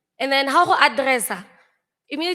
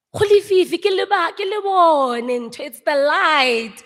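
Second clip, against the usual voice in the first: worked-up insisting; 6 semitones higher, 6 dB louder than usual. Retold or imitated. Retold arguing about the light.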